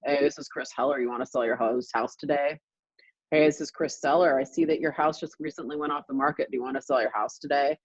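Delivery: lightly mocked flat cold-call voice; a hint of a bored surfer droning; Chris Heller monotone. CEO cold-calling a homeowner, mild mock monotone. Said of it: "kinda has a monotone voice".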